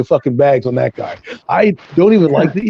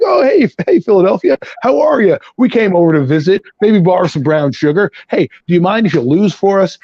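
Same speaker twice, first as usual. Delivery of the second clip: sweet neighbour act; 2 semitones higher than usual. Retold or imitated. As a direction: play the polite neighbour begging a favour. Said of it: "you feel frothy".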